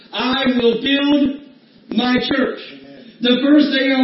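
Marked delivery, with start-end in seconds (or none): 0.1-2.6 I will build my church, each word drawn out slowly; slow, stressed quote. Shown as a demonstration. To the congregation, underlining the verse, slow and emphatic. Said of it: "I want you to underline the words".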